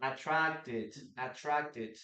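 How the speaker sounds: "attracted" ending in a full -ted syllable; sounded E in ending. Shown as a demonstration. Teacher models the word for learners, sounded E. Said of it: "yes, we pronounce the letter E".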